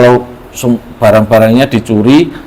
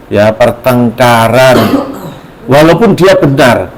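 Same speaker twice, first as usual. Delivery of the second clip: solemn translation; slower than usual. Acted.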